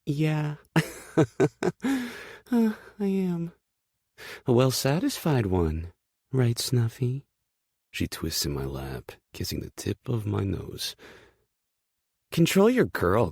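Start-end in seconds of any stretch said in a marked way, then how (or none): 0.0-7.3 high, laughing, smug tease; laughing taunt. Acted. Hurricane taunting Aspen from Kay's lap, laughing. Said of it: "Hurricane just laughs". 12.3-13.3 high, loud snapped order; angry snap. Acted. Aspen snapping at Kay about his girl. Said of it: "Aspen snaps".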